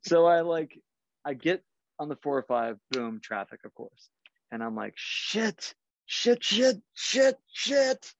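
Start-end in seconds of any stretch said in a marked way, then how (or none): 5.0-8.1 high, squealed mock panic; retold panic. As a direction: rattle off high-pitched curses, stuck and late. Retold panic, late in traffic.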